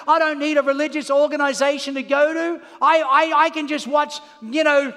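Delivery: lightly voiced doubter, loud and insistent; a touch of a stubborn churchgoer; mock skeptic. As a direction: mimic the people who say they need no church. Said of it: "People say".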